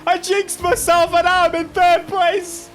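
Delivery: high, loud wail of dismay; dismayed shout. Real, not acted. Racer jinxed himself into third place, dismayed shout. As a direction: yell out as it all goes wrong. Crash drops him to third.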